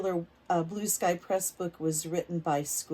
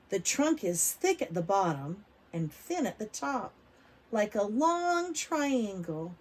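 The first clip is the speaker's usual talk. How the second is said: put-on reading to children; slower than usual. A narrator's reading. Teacher reading a picture book aloud to kids. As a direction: lively, clear storybook reading for little ones.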